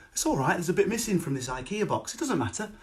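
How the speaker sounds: lightly voiced mellow father-in-law; calm father-in-law. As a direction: shrug it off kindly. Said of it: "my father-in-law has a cup of tea".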